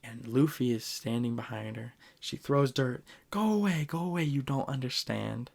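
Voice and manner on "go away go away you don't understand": mild angry. Retold or imitated. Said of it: "And she's super mad at him".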